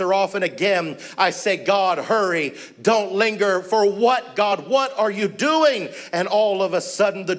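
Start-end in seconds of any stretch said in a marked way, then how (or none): 1.6-5.9 rising, pleading, slowing at the end; a frantic husband begging God in a dark wing, higher and drawn out; exasperated plea. Retold or imitated. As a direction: cry out to God, higher and slower. Pleading prayer in darkness.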